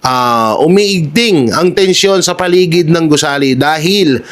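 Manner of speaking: reading with a head cold; nose blocked up from a cold; stuffy nose. Real, not acted. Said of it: "may sipon tayo".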